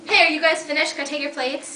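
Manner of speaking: bright high server voice; chirpy waitress checking the table; waiter voice. Acted. Actor plays waiter at table.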